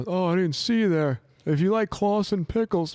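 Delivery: high, loud mock-presenter greeting; brother's video intro. Guest mimics his brother's pickle review on a pool raft, hammed-up intro. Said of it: "He's like".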